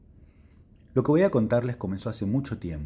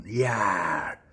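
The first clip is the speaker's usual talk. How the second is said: friendly monster voice. Acted. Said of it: "fue un".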